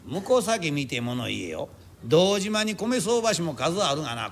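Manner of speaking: a rice speculator boasts to the bearers he never backs down; slow proud boast. Acted. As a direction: lord it over the bearers with pride.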